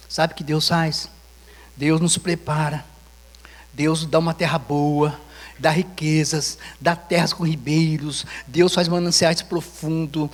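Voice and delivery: slow, weighty sermon proclamation; deliberate pulpit cadence; slow preaching. Acted. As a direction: preach each promise slowly and firmly.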